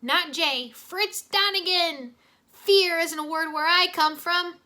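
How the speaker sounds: Jay playing a tough action hero, loud and slow; hammed-up action hero Fritz Donegan. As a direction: puff up like a movie action star. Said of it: "still pretending he was Fritz Donegan".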